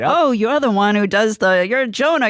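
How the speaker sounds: high, bright surprised greeting; gushing, delighted recognition; excited recognition. Retold or imitated. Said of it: "I remember her saying to you".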